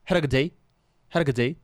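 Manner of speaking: had a good day, lightly voiced host mother; a hint of the English host mother asking; imitating host mother. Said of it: "Ela falava". (imitando de leve a mãe anfitriã)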